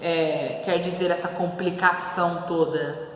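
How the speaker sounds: lightly ironic, with a musing hum; a touch of sarcasm; mildly sarcastic. Acted. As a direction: read it as if wryly doubting. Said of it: "Sarcástico, meio irônico".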